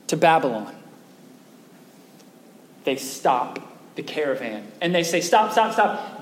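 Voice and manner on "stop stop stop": calling a halt. Acted. Captors halt the caravan.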